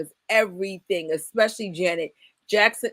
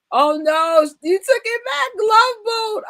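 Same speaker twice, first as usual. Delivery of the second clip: excited; 13 semitones higher, 6 dB louder than usual. Retold or imitated. Excited fan reacting to clip.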